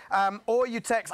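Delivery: slow, slipped-in American accent. Real, not acted. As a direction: read it with an unintended American accent. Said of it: "I didn't mean to do that in an American accent".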